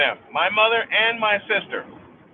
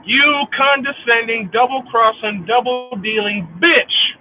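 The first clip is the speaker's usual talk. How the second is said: louder, deliberate string of insults; angry insult; 3 dB louder than usual. Real, not acted. Cursing the sister to listeners, louder and bitter. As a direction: spit each slur out.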